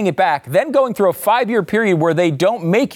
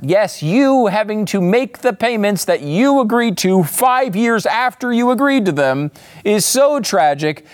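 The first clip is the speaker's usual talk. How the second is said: sarcastic; 3 semitones higher than usual. Real, not acted. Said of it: "I'm being very sarcastic".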